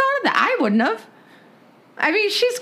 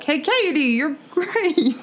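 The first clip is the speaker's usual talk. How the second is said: cool rapper voice; 8 semitones higher, much slower than usual. Retold or imitated. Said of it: "he would just say something cool like".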